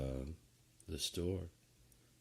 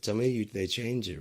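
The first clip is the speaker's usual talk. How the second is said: desperate plea; 5 semitones higher, 6 dB louder than usual. Pretend. Pleading the plot changed.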